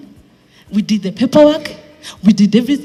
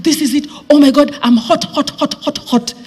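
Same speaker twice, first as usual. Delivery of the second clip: excited; 4 semitones higher than usual. Retold or imitated. Excited about new offer.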